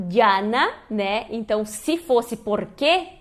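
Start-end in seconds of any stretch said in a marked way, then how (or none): 2.3-3.2 "porque" as por-KE, final stress; slow "porque" with weight on KE. Shown as a demonstration. Teacher shows the hypothetical accented form, "porque" stressed on KE. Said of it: "teria o acento no E".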